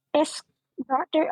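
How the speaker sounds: high stage whisper. Playing a character whispering to a mushroom so others won't hear: whispering in character. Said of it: "I'm gonna whisper to him".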